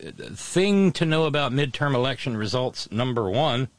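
radio announcer read. Shown as a demonstration. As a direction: keep the smooth DJ delivery. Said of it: "my D J voice".

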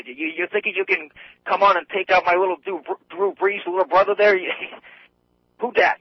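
tough New Orleans lineman; taunting football lineman. Retold or imitated. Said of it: "a big Louisiana, New Orleans lineman might, would say".

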